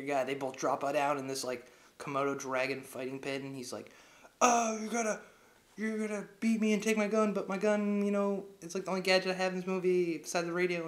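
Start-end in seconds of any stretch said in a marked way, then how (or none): 4.4-10.9 higher, louder protest; hammed-up high complaint; mock alarmed hero. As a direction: act out Bond cornered in a fight. Voicing Bond in fight.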